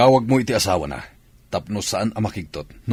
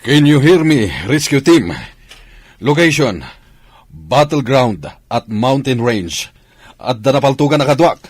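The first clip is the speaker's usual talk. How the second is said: loud, raised radio call for rescue; 5 semitones higher, 8 dB louder, slower than usual. Acted. (tumatawag sa radyo, malakas)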